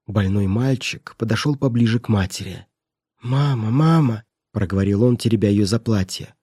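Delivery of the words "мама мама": put-on small boy calling mama, slow; child's voice. Sick boy calls to his mother in a child's voice.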